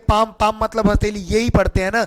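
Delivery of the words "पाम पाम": पाम with long aa straight into M; silent L. Shown as a demonstration. Teacher reads palm for students, पाम with L dropped. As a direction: say पाम with no L before the M. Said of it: "इसको हम क्या पढ़ते हैं".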